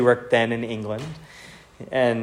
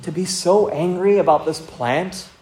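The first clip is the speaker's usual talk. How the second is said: tender questioning; 4 semitones higher than usual. Acted. God gently questioning Jonah about his anger, tenderly. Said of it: "the tenderness of God coming again".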